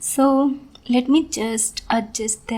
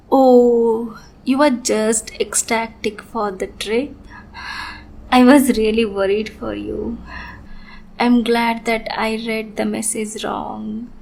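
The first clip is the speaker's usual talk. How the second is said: sweet on the surface, unhinged underneath; obsessive sweet lover. Acted. Yandere lover's sweet monologue.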